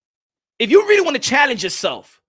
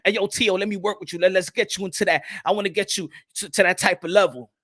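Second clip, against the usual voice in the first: mock Jake Paul pitch; 5 semitones lower, 4 dB quieter than usual. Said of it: "he could be like".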